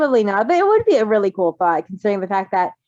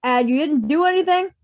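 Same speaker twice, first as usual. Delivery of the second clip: chill uncle impression; 6 semitones higher than usual. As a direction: play the lazy uncle baffled by chaos. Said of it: "that chill-ass uncle in the corner".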